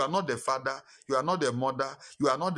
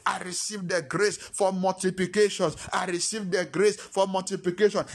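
fervent prayer. Acted.

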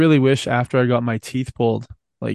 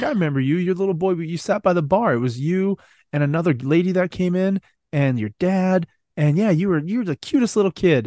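lightly voiced waitress, pitched up; a hint of higher-voiced fussing over a child; retold friendly waitress; 5 semitones higher than usual. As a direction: imitate a waitress recognising a little regular.

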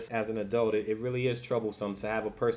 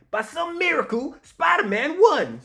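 high, louder and slowed, breaking into a laugh; excited bystander yell; 14 semitones higher, 8 dB louder than usual. Retold or imitated. Bystander screaming the win in amazement, high with a laugh. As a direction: cheer it in disbelief, laughing. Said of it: "he's screaming".

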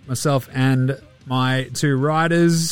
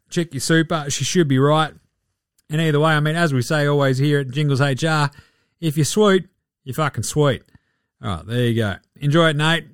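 Joe Ingles impression. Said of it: "I've been Joe Ingles".

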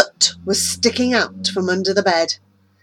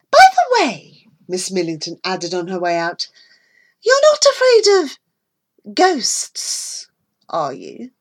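sinister tease; 3 dB louder than usual. Acted. Millington trying to frighten Mary about ghosts, sinister. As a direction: taunt her with a hint of threat.

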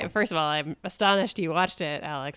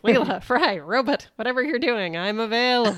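raised pitch, eager plea for company, last word stretched out; needy Zoidberg; 4 semitones higher, 4 dB louder than usual. Retold or imitated. Podcaster quoting Zoidberg begging friends to include him, needy and eager. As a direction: call out hopefully as lonely Zoidberg. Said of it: "Zoidberg needing friends ... where he's like".

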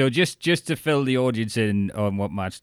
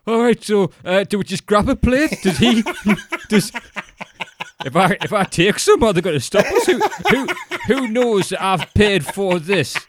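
high, loud, anxious giggling; nervous posh guest; 10 semitones higher, 7 dB louder than usual. Retold or imitated. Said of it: "And we're like".

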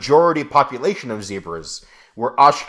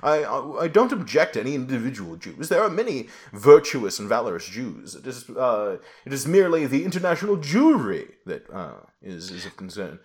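posh Tory voice; 3 dB quieter than usual. Retold or imitated. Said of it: "how about just posh Tory voice?".

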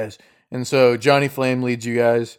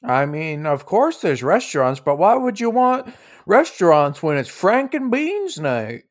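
put-on swooping old-lady voice, rising high; old lady innkeeper; 5 semitones higher than usual. Innkeeper puzzled they want restaurants, high swooping old-lady voice.

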